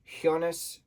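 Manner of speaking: "Jonas" said with a Y sound, like Yonas; "Jonas" starting with a Y glide. Shown as a demonstration. Comparing the German pronunciations of the name, Y sound. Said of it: "J, sh, and what was the other one?".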